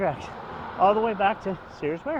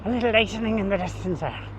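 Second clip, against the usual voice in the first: hammed-up mock Scottish accent; bad Scottish accent. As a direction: badly fake a Scottish accent. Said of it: "that was my bad Scottish accent".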